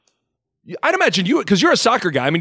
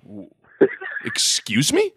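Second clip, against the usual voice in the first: mock disbelief. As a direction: pitch it up in disbelief. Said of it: "the guy looked at us like".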